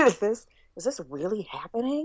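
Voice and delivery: baffled, rising question; acted disbelief. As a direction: ask it as if you cannot believe it. Acts out the disbelieving moment.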